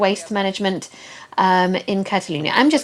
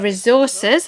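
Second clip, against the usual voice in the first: resources slowed down and leaned on; the word resources said slowly, underlined; stress on resources; 2 semitones higher than usual. Real, not acted. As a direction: give resources slow weight. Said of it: "I want to underscore the word resources there".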